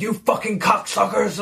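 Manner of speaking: high-pitched put-on game character voice; hammed-up swearing, pitched well above normal; mock violent cursing. Player quoting Bulletstorm's amazing language, mock violent cursing. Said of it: "Like, it's so violent".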